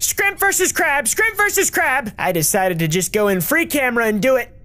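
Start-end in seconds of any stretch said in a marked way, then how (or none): 0.0-2.1 high, excited exclaiming; pitched-up overjoyed announcing; thrilled discovery. Real, not acted. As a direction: shriek with delight at the find. Discovers shrimps in the mode.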